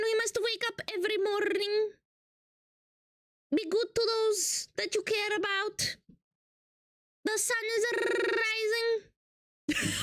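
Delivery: lightly put-on Italian accent, mild; impassioned speech in a weak Italian accent. Streamer speaking to chat in a lightly put-on Italian accent. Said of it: "I hate this voice".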